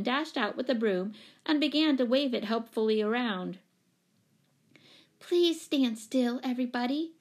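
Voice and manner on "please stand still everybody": imploring. A narrator's reading. Jane pleading with the crowd chasing her cat, imploring. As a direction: beg everyone earnestly. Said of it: "implored Jane".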